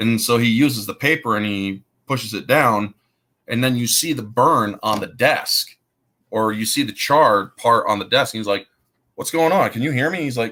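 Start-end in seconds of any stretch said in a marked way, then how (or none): 9.2-10.2 fast, high-pitched, rushed, desperate. Retelling a scene with a burnt desk, desperate Jim Caviezel impression. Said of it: "the desperation in Jim Caviezel's voice".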